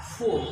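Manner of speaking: फुल as a lone closing ful; separated syllable. Shown as a demonstration. Teacher dividing the word with hyphens, isolated syllable फुल. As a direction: set फुल apart as the last syllable. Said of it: "फिर hyphen लगा दो".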